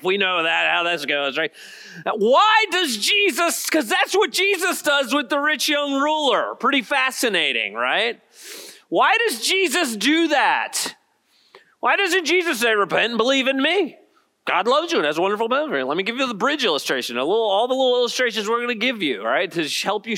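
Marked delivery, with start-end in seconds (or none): 2.0-14.0 high, insistent rhetorical questioning; emphatic preaching. Real, not acted. Preacher asking the congregation why Jesus does that, emphatic.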